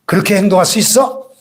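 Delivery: hint of a sneering devil; devil accusing. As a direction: taunt the believer as the accuser. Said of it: "이렇게 참소합니다".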